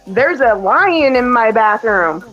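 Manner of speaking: lightly voiced small child, drawn out slowly; slow, mild imitation of an imaginative kid; retold child. Son tells mother of the lion he imagines, retold as a slow child. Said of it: "He goes".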